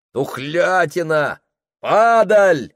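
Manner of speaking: high, loud crowd cries; outraged shouting. Acted. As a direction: yell out the disgust.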